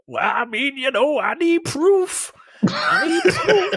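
high, slow, laughing mock-cop voice; mocking inept cop. Mocking the useless police who demand proof, high and slow. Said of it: "the police force is inept".

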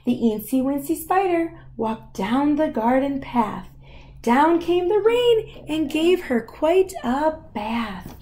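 measured, rhythmic picture-book reading; lilting storytime delivery; story narration. Acted. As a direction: read the rhyme to a young child, lingering on key words. Reads picture book to child.

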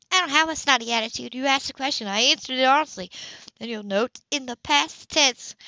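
mild indignant woman; lightly voiced Sybil. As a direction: push back with hurt pride. Sybil voiced, stung and defiant.

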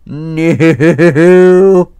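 loud, high frightened no; real fright; scared no. Real, not acted. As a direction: cry out in panic. Scared laugh and no.

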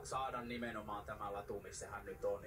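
ordinary talk, nothing marked

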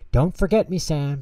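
flower begging Sam not to forget her; pleading farewell. Acted. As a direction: ask him to remember you.

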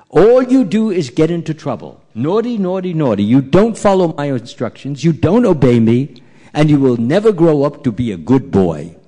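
emphatic, mildly acted telling-off; scolding mother. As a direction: lecture a disobedient child firmly. Mother lectures her naughty child.

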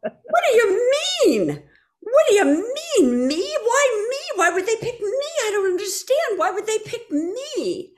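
very high, loud, shrieking whats; screaming in disbelief. Retold or imitated. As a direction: scream it out, overwhelmed. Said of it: "And I just started screaming".

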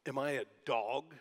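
half-hearted giant bellow, mocking the boy; mock roar. Preacher voicing Goliath taunting David, mild mock roar. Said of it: "he roared at David".

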